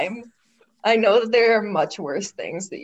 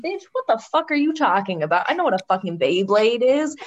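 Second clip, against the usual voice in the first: indignant retort. Retold or imitated. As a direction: snap back in mock offence. Friend's indignant retort, retold.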